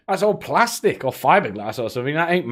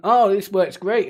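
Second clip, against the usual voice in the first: higher, slow, smug mock approval; mock naive buyer; 6 semitones higher, 4 dB louder than usual. Mocking electric car buyers, smug and slow. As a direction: play the clueless happy owner. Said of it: "And they're thinking".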